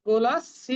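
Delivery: কুলস্য read as one, স্য joined; joined cluster. Shown as a demonstration. Teacher showing কুলস্য read joined, not split. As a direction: run কুলস্য together. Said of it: "আমরা মিলিয়ে পড়বো".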